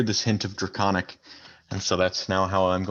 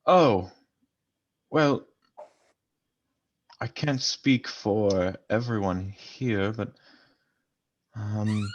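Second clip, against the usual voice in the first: put-on thick Draconic accent. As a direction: speak carefully in a heavy Draconic accent. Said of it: "respond in a very thick Draconic accent".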